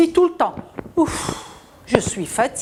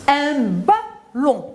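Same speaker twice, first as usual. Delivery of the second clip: "Un ballon" drawn out slowly; slow model reading; 3 semitones higher, much slower than usual. Shown as a demonstration. Teacher to pupils, slowly modelling the word. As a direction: read "Un ballon" slowly, syllable by syllable. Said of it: "Est-ce que j'entends le son ou?".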